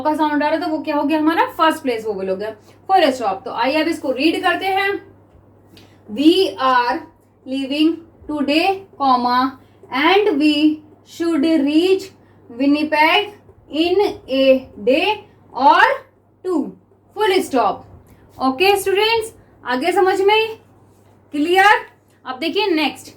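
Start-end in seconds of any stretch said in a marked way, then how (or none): 6.1-17.9 very slow, measured dictation; spaced-out classroom dictation; dictation reading. Shown as a demonstration. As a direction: read it word by word for note-takers. Reads back dictation text slowly.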